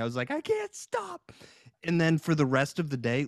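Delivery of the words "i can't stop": very high, slow, soft squeak; helpless laughing fit. Retold or imitated. Retelling a giggle fit, imitating helpless laughter. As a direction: squeeze it out as if dying of laughter. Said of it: "I was gonna die literally from laughing".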